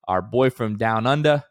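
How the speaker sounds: put-on light, clumsy Australian accent; a hint of fake Australian; bad Australian accent. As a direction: attempt an Australian accent, badly. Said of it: "the worst Australian accent".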